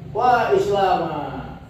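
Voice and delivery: slow, high wail of Wa Islama, stretching wa; high whining lament. Shown as a demonstration. Teacher demonstrating a lament to students, whining high and slow. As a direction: cry out Wa Islama like a wailing complaint. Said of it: "merengek-rengek".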